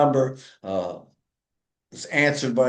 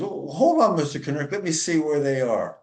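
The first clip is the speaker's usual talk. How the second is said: eager receptionist; 2 semitones higher than usual. Retold or imitated. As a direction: play the chirpy young lady taking the call. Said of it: "She goes".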